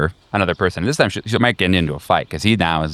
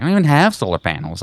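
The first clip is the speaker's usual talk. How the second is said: shocked woman; 8 semitones higher than usual. Acted. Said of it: "she's like".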